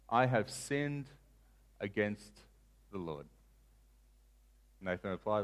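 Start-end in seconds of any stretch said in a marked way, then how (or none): 0.1-3.3 soft, halting, falling away; hushed confession. Acted. David admitting his sin to Nathan, hushed confession. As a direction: pause between phrases, sinking very low and soft.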